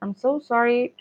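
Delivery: ordinary talk, nothing marked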